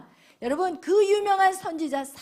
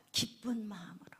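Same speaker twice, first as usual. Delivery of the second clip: softer, hushed reveal; whisper; 6 semitones lower, 14 dB quieter than usual. Real, not acted. Preacher whispering Hannah's faith to the congregation. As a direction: lean in and whisper the point.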